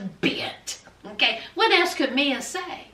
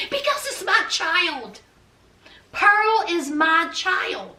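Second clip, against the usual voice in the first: raised-pitch, emphatic mock protest; insistent; 4 semitones higher, slower than usual. Mia defending to B B why she kept the baby, insistent. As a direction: insist on it, slowing down on the repeat.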